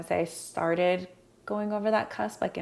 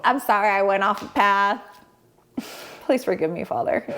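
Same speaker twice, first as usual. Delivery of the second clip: mock repentance; 4 semitones higher than usual. Woman confessing to God she strayed, playful penitence. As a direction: plead forgiveness playfully, laughter creeping in.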